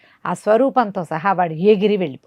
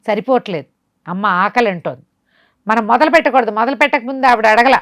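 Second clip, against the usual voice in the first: sorcerer ordering; 3 semitones higher, 3 dB louder than usual. Acted. Sorcerer scolds and plans sacrifice.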